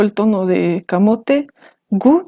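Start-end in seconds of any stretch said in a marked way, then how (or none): 1.9-2.3 gu said on a high pitch. Shown as a demonstration. Teacher recalling a known high-tone word, high. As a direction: lift gu up high. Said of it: "tiene tono alto".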